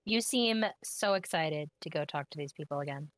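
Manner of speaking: deadpan sarcastic voice; sarcasm voice. Acted. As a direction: fake enthusiasm, dry sarcasm. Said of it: "That was my sarcasm voice".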